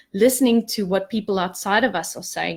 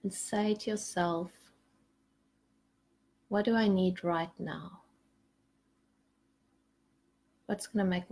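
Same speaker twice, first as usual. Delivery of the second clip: guided meditation; 7 dB quieter than usual. Acted. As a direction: gently lead the group down into their hearts. Leads a meditation.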